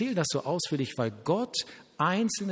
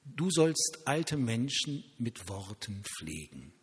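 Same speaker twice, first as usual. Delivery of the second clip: slow solemn word; slower than usual. Retold or imitated. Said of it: "Und Gott sagt".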